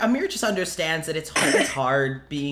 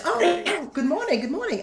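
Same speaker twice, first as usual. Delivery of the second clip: Amir; 12 semitones higher than usual. Acted. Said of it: "Amir just".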